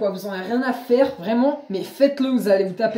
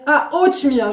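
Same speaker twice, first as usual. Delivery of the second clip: imitating a dawning realisation; "ah" of recognition, then falling; sudden understanding; 3 semitones higher, slower than usual. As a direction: act out finally getting the word. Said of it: "mais elle a compris".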